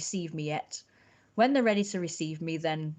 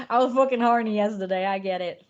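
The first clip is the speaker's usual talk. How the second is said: hammed-up Irish accent, louder; 3 semitones higher, 7 dB louder than usual. Streamer to chat, in a louder hammed-up Irish accent. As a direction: throw on a jokey Irish accent. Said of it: "That's Irish".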